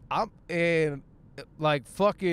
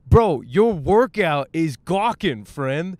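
calling out; 8 dB louder, slower than usual. Retold or imitated. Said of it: "I'm like".

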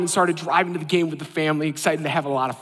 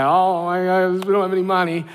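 fake surprise. Faking no money to wife.

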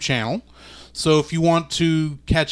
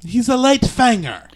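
put-on Transylvanian accent; 8 semitones higher, 4 dB louder than usual. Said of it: "This is a horrible Transylvanian accent".

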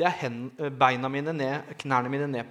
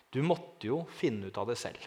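softer, gentle words from the man; quiet, earnest quote; 4 semitones lower, 7 dB quieter than usual. Retold or imitated. The man in the sacristy speaking to him, quiet and earnest. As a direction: say it softly, as a quiet revelation. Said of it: "Han sa følgende setning".

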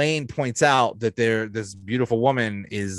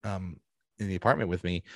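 inviting him up; 3 semitones lower, 9 dB quieter, faster than usual. Retold or imitated. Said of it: "she says".

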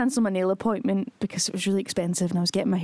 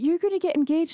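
imitating Aussie girl; 6 semitones higher than usual. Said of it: "Aussie girl Rebecca was like".

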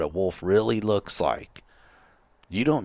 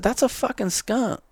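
retold incredulity; 13 semitones higher than usual. Retold explanation to clueless buddy.

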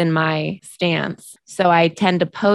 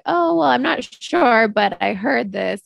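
slow and much higher, self-doubting; slow, high, doubtful mock hedge; undermining hedge; 5 semitones higher than usual. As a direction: hedge your own point, unsure of yourself. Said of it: "Or I'll undermine it by saying like".

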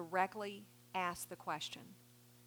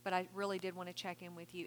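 softer, gentle and inviting; soft caring voice; 2 semitones lower, 5 dB quieter, faster than usual. Shown as a demonstration. Counselor demonstrates checking in with a client, soft and caring. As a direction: ask it like you truly care. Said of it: "say it in a soft voice".

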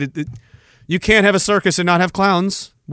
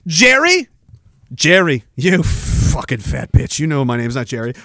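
playing Janice. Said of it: "it's Janice. Let's just imagine it".

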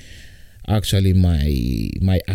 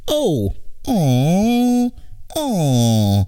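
much higher, put-on squeaky voice; squeaky high greeting; 11 semitones higher, much slower than usual. Host greeting his listeners in a squeaky high put-on voice. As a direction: greet the listeners like a cartoon character.

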